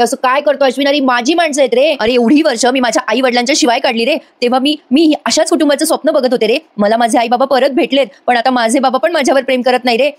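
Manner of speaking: mock pitiful pleading. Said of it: "कळवळा आणायचं नाटक करते".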